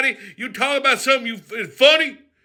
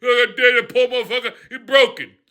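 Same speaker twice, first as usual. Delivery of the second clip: lower, mocking whiny scold; 4 semitones lower than usual. Rufus mocking people who scold him, whiny and prissy. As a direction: mimic a preachy killjoy. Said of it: "Don't be telling me".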